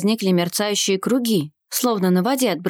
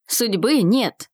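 slow, stubborn repetition; much slower than usual. A narrator's reading. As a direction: dig in, drawing each word out. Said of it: "упрямо повторил Арсений".

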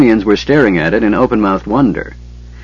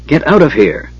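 urgent order, pitched up; 6 semitones higher than usual. Acted. Tanis ordering Flint to leave, urgently. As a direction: send him away, now. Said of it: "the half-elf ordered".

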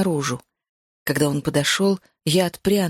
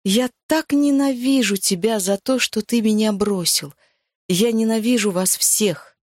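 despairing hatred; 3 semitones higher than usual. Acted. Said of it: "Отчаяние".

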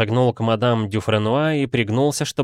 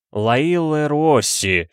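very slow, higher-pitched sounding out; syllable by syllable; 6 semitones higher, 3 dB louder, much slower than usual. A narrator's reading. Detective stumbling over the French document, syllable-by-syllable. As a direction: read it haltingly, stretching each syllable. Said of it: "прочёл по слогам".

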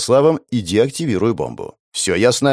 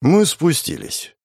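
usual speaking voice

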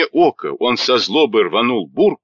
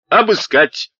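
higher, sharp command; barked order; 8 semitones higher than usual. A narrator's reading. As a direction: bark it at the soldiers. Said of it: "рявкнул".

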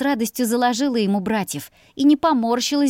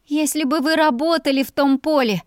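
bold outburst, raised up high; blurted boldly; 6 semitones higher than usual. A narrator's reading. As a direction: fling it in his face. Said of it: "смело выпалила ему в лицо". (смело выпалить в лицо)

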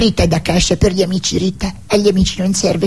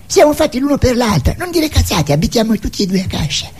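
higher, sharper back-and-forth; mock lovers' quarrel; 5 semitones higher than usual. Comedian voicing two lovers, one mocking the other. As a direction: romantic line shot down. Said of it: "Così è l'amore".

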